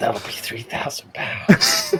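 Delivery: loud stage whisper meant to carry. Picturing a lawyer leaving the room: imitating a loud whisper. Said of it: "He just whispers it loudly from the door".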